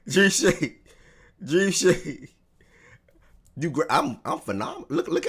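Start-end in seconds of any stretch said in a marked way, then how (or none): 0.1-2.3 high, loud call of a name; excited call to a friend. Real, not acted. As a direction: shout his name across the room. Calling out to a friend.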